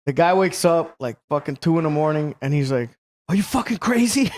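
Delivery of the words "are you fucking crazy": retold squeal of disbelief; mock outraged disbelief. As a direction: play the incredulous friend at a higher pitch. Acting out friend woken in car.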